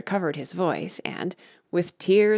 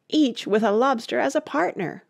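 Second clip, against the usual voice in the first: higher-pitched exclamation; excited cry; 7 semitones higher than usual. A narrator's reading. Gryphon adding a dance detail, crying out. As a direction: chime in with an eager cry. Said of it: "cried the Gryphon".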